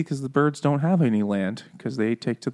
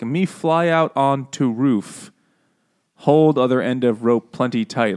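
slow, mild mock Jamaican accent; bad Jamaican accent; slower than usual. Reading the bird's line, mock Jamaican accent. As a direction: read it with a light put-on Jamaican lilt. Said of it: "I did get Jamaican vibes".

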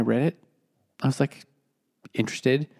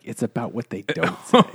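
mock literary reading. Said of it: "and be like".

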